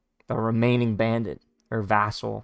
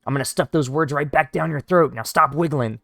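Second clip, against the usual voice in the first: loud, raised mock-menacing voice; threatening bandit; 3 semitones higher, 4 dB louder than usual. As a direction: growl threats at a captive elf, hammed up.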